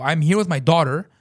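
indignant, rising outburst; retold screaming. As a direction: plead the case angrily. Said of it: "as I'm screaming".

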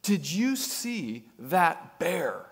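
slow, drawn-out lightly voiced woman; a hint of an amazed passenger asking; mock-slow "did you see that bear"; woman's question. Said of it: "the woman leans out ... and says".

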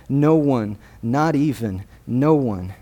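"No one" und "not even" einzeln, mit Pausen betont; stress on no one. Shown as a demonstration. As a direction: hammer home "No one" each time. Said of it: "You hear that?".

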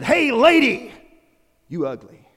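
high, loud squawky parrot voice; squawking parrot. Acted. Pet shop parrot squawking insults at passing lady. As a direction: screech it out like a rude parrot.

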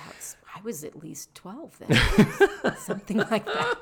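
stiff, numb mouth; talking through a numb mouth; can't move mouth. Real, not acted. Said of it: "I just said I can't move my mouth".

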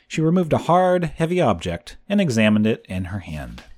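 lively storybook reading with voiced children; story narration. A narrator's reading. Podcaster reading a chapter to listeners, lively storybook voice. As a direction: read the chapter aloud to young listeners. Reads a children's novel aloud.

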